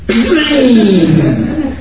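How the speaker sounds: wordless laugh after joking. Real, not acted. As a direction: laugh at your own joke. Laughs after mock eager reply.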